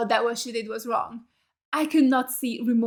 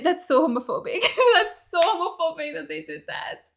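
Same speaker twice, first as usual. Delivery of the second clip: laughing; 4 semitones higher than usual. Real, not acted. Laughing mock outrage.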